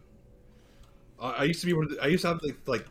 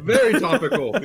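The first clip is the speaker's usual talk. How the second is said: laughing; 10 semitones higher, 10 dB louder than usual. Real, not acted. Laughing at a grim joke.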